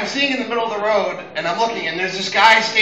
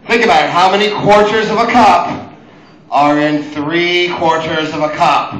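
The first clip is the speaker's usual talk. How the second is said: exasperated explaining; 5 dB louder than usual. Retold or imitated. Explaining to fiance.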